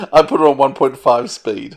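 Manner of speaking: says it through a real laugh; sheepishly laughs out the admission; giggling while owning up; laughing confession. Real, not acted. Confessing to speeding up audiobook.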